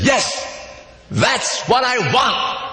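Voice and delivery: a hammed-up stubborn customer; mild mock shout. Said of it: "the man shouts".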